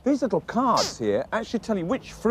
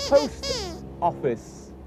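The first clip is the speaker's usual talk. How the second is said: Post office read slowly, a little higher; reading a sign aloud; 5 semitones higher, 4 dB quieter, much slower than usual. Shown as a demonstration. Reading the post office sign slowly to Sweep. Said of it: "Look up there".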